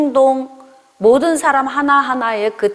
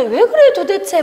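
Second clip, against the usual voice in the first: loud, high-pitched mock scolding; exasperated parent scolding; 8 semitones higher, 4 dB louder than usual. Parent to a child crying over nothing, exasperated scolding. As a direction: demand an answer like a fed-up parent. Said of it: "자녀들 할 때에도 별로 울 일도 아닌데".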